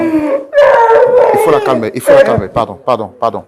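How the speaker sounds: loud, urgent calls for calm; loud, insistent soothing attempts; urgent pleading. Real, not acted. Host urging others to calm guest.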